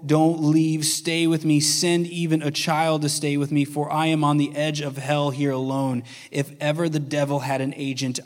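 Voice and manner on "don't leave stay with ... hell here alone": a dying man begging not to be left alone; pleading cry from a deathbed; desperate deathbed plea. Acted. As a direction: plead as if at the edge of death, a touch louder.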